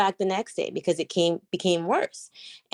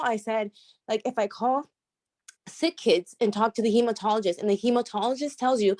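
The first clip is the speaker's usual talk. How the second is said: higher, trembling voice after tears; shaky voice after crying; 4 semitones higher than usual. Real, not acted. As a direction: voice shaking with emotion. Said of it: "I could hear it in your voice ... that bit of shaking".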